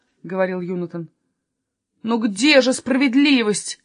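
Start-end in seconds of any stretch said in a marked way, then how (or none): 2.0-3.8 indignant. Acted. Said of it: "негодовал Еспер".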